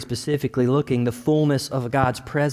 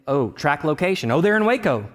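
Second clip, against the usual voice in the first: rising eager, rushing on "we gotta get ready"; excited; 5 semitones higher than usual. Retold or imitated. Checking parents' location, eager and rushing. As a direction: grandparents almost here, getting higher and faster. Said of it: "I just look at".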